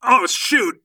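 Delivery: high, loud acted yell; alarmed yell. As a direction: yell it as if caught out. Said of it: "Aaron yells".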